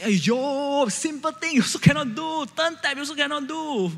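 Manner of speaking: high, scolding mother's voice; mock-scold like an irritated mom; annoyed mom. Mom scolding her son over the tap, high and exasperated. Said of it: "my mom got really annoyed".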